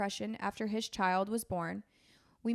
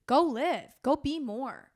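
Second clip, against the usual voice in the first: a higher, louder pleading voice for the addict; mock addict's plea; 4 semitones higher, 6 dB louder, slower than usual. Host voicing an addict to a grieving sister, higher and louder. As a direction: voice the addicted brother urging her to go live. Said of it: "that's what they would say is".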